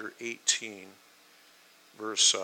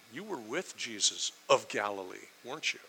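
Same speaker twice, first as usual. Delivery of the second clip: understated anger, pointed and restrained; hostile accusation; 5 dB quieter than usual. Acted. Servant girl accusing her kinsman's attacker, quietly hostile. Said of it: "her tone was hostile, that it was angry".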